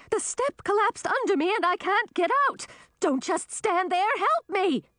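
high, urgent, cross cry; cross shout. A narrator's reading. Queen stuck in collapsed stairs to her son, shouting crossly. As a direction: demand help, shouting crossly. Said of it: "shouted back, sounding cross".

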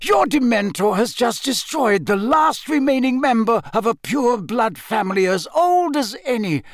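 commanding, urgent oratory; voice rising. A narrator's reading. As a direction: drive each point home with conviction. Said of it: "his voice rising now".

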